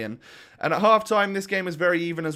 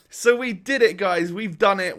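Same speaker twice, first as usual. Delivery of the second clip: excited; 4 semitones higher, 4 dB louder than usual. Real, not acted. Celebrating winning the seventeenth game.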